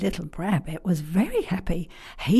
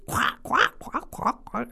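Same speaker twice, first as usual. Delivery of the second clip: high quacking that fades away to nothing; terrible bird noise; 5 semitones higher than usual. Acted. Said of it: "And he made a terrible noise".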